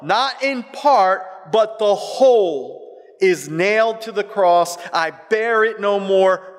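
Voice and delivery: high, slow, ringing declamation; impassioned hymn recitation. Real, not acted. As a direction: proclaim the hymn, stretching each phrase.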